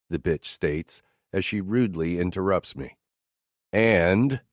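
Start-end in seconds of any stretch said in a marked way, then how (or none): 3.7-4.4 And punched louder; stress on And. Acted. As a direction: hit the word And hard. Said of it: "I emphasize the word strongly".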